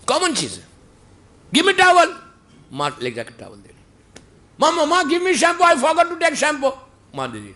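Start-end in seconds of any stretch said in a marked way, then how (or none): 1.6-2.1 high, loud call to mother from the shower; calling to mom. Retold or imitated. Son calling mom from the shower, high call. 4.6-6.8 high, slow drawn-out call for mama; calling to mom. Retold or imitated. Son calling mom for shampoo from the shower, high drawn call.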